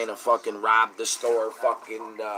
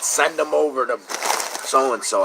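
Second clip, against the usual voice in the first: louder, higher defiant retold yell; retold shout; 4 semitones higher, 5 dB louder than usual. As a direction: shout the address back at them. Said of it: "I screamed out where I worked at".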